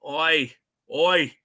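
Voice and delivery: lightly put-on Cockney; Cockney accent. Teasing co-host with his vulgar Boys persona, mock Cockney accent. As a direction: slip into a playful Cockney accent. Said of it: "in the Cockney accent".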